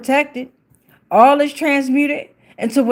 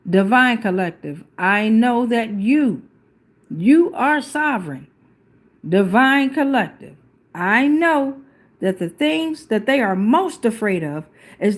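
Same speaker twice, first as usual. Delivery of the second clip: measured, earnest prayer to the collective; sincere invocation; spoken prayer. Real, not acted. Prays aloud to Divine Collective.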